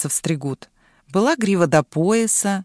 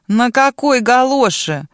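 slow, louder threatening demand; menacing question; 5 semitones higher, 5 dB louder, slower than usual. A narrator's reading. Dragon interrogates the girl, menacing and slow. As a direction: loom over her with the question. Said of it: "грозно спросила Юлёна Дракон".

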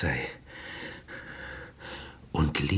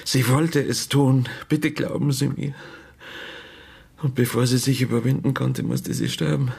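pleading; 5 semitones higher, 3 dB louder than usual. Acted. Father pleads he is telling the truth.

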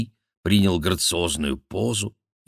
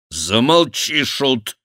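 loud, higher order to the jester; royal command; 7 semitones higher, 6 dB louder, slower than usual. Acted. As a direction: shut the jester up. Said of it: "приказал король". (повелительный окрик короля)

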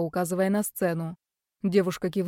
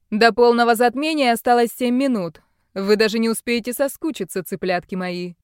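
loud mocking gloat, pitched up; gloating villain; 3 semitones higher, 7 dB louder than usual. Villain taunts caged captives about the eclipse, loud gloating.

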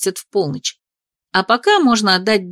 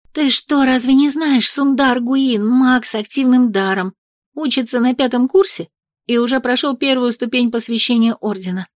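excited gossip; 4 semitones higher than usual. Acted. Friend explaining excitedly.

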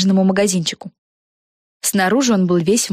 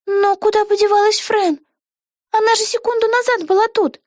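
put-on much higher, eager girl voice; excited young witch thinking aloud; Vega's voice. A narrator's reading. Вега. (высокий голос юной ведьмы Веги)

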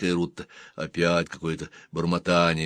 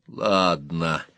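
conciliatory; 2 semitones lower than usual. Acted. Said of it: "примирительно произнёс Гэт".

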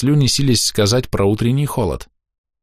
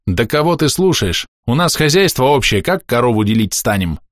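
heated; 5 semitones higher than usual. Acted. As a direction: demand it in exasperation. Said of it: "в сердцах спросил мужчина".

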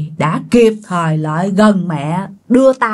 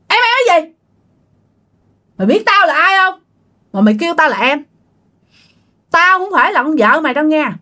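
higher, furious possessed voice; possessed woman cursing; 6 semitones higher than usual. Acted. Possessed aunt cursing her husband, high furious voice. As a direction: spit each insult like a demon. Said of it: "mợ ba mới quay qua chửi cậu ba".

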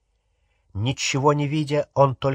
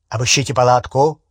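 commanding; 6 dB louder, faster than usual. Acted. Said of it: "приказал другой голос".

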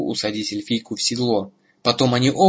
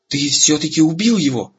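higher-pitched, amazed admiration; admiring exclamation; 5 semitones higher, 4 dB louder than usual. A narrator's reading. Eragon to Murtagh after the Shade falls, admiring exclamation. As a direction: exclaim in awe at the feat. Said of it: "восхищённо воскликнул Эрагон".

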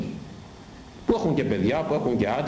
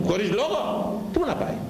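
mocking high voice; 10 semitones higher than usual. Preacher mocks, high put-on voice.

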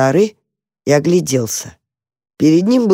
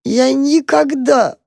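slow, high, broken sob on никогда; sobbing; 9 semitones higher, slower than usual. A narrator's reading. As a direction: drag the word out through a sob. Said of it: "всхлипывал крот".

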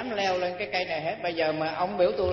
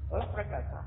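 softer repeat of lấp rất là khó; quiet echo; 8 dB quieter than usual. Shown as a demonstration. Repeating the warning to the listeners, softer. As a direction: drop the voice and repeat it. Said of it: "nhưng mà lấp rất là khó".

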